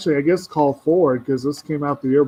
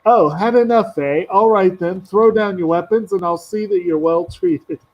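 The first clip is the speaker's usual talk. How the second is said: lightly raised mock-gracious voice; smug goblin captor; 4 semitones higher than usual. Goblin telling the surrounded knight to give up, smug. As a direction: offer surrender terms with mock courtesy. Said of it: "he's surrounded".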